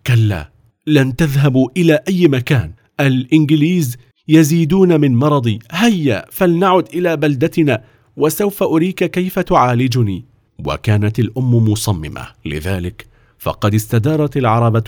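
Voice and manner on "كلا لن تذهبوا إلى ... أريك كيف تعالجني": steady, resolute refusal; a mother who will not be argued with; determined mother; firm. Acted. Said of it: "ردت في حزم".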